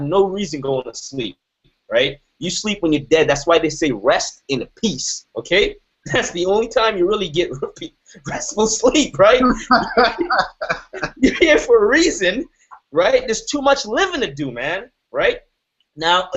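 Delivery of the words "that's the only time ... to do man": laughing. Real, not acted. Laughing at his own joke.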